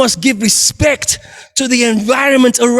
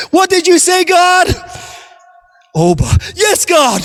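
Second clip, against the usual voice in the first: high, frantic begging; panicked pleading; 4 semitones higher than usual. Acted. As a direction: beg for rescue in panic. Climber shocked by God's command.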